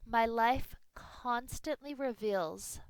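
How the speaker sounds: slow, deliberate affirmation. Shown as a demonstration. Teacher modelling a Sankalpa for students, slow affirmation. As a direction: say it slowly, as a vow. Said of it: "perhaps use a phrase such as".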